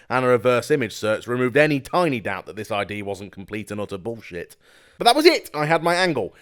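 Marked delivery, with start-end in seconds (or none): 5.0-6.3 triumphant. Real, not acted. Triumphant discovery in narration.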